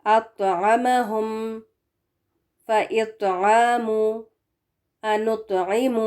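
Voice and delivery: اطعمہم slow, heavy ط with bounce. Shown as a demonstration. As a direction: recite slowly, ط heavy and bounced. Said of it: "قلقلہ بھی ہوگا اور heavy بھی". (موٹا اور قلقلہ کے ساتھ)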